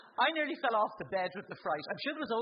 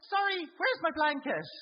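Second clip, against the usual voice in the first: called out, slow and louder; calling out; 8 semitones higher, 6 dB louder than usual. Retold or imitated. Patient calling to the doctor for her missing blanket, slow call. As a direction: call out from behind the curtain. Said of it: "So I shouted out".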